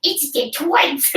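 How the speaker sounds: slow cartoon villain voice; drawn-out anime character; Pokemon voice. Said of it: "Why are you doing Pokemon voices?".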